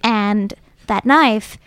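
slow Dondalorian storytelling voice; Dondalorian accent. Acted. Disguised belle continues her knife story, slow Dondalorian accent. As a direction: draw out the tall tale in Dondalorian accent. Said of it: "I affect my best Dondalorian accent".

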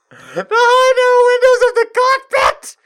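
high, loud disbelieving cry; 1 incredulous exclamation. Real, not acted. Reader shouting at the story's absurd detail, loud and high. Reading erotica aloud, exclaiming.

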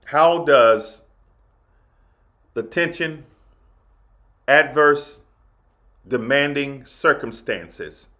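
long pauses between phrases; deliberate preacher pacing; slowed down. Shown as a demonstration. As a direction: spell each phrase out slowly. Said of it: "Let me slow down".

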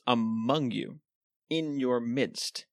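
"among you", then "in your midst" drawn out slowly; emphatic stress. Shown as a demonstration. Preacher pointing out the text's constant emphasis on the local body, emphatic. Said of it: "constant emphasis".

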